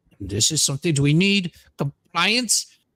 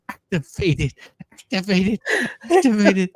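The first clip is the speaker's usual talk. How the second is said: building insistence; 4 semitones higher than usual. Acted. Rising mock insistence.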